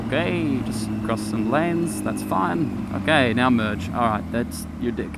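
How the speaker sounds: muffled behind a helmet visor; inside a helmet. Real, not acted. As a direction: talk as if through a closed helmet. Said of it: "gotta keep my visor up".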